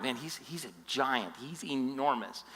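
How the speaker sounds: frightened men murmuring about Goliath; awed soldiers. Retold or imitated. Soldiers describing the giant.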